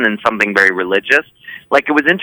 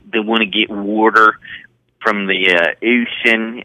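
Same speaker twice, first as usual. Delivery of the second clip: slow rural Eastern Shore Maryland drawl on ocean; Eastern Shore Maryland accent; slower than usual. Shown as a demonstration. Showing the podcast hosts the Eastern Shore Maryland accent. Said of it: "Oh, wow, you sound just like her".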